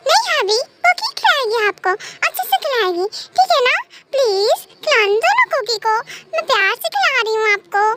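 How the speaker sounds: lightly voiced childlike coaxing, lilting up on questions; coaxing childlike wife. Cookie offers to feed her husband, lightly voiced childlike coaxing. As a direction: coax like a doting little wife. Plays Cookie insisting on feeding.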